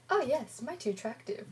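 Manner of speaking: lightly acted starstruck agreement, high on "Oh yes"; swooning a little in agreement; starry-eyed. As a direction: play a mildly smitten admirer. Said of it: "with stars in our eyes".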